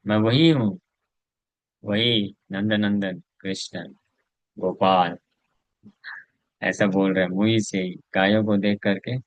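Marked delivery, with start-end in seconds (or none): 0.1-5.2 lightly voiced ecstatic declaration; a hint of divine rapture, drawn out; ecstatic Krishna. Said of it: "भाव में आ गया कि मैं वही गोपाल हूँ".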